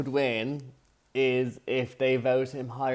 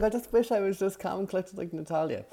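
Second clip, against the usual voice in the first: higher, lightly voiced little frog; 7 semitones higher, faster than usual. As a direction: squeak it out as the frog in the throat. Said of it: "He's like".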